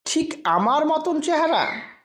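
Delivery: a light chuckle in the voice, half laughing it off. A narrator's reading. Stranger laughing off the narrator's lookalike claim, mildly amused. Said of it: "হাসতে হাসতেই বললেন".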